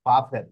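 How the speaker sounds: বাফের with a firm b, German style. Shown as a demonstration. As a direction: say বাফের starting on a b sound. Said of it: "যদি Germany ভাষার হয়".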